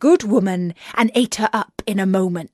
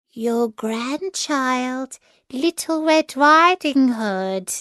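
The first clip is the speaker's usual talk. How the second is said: put-on wolf putting on a higher little-girl voice, slow at first; faked girl voice; 5 semitones higher, slower than usual. Wolf at grandmother's door pretending to be the girl, higher. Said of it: "faking her voice".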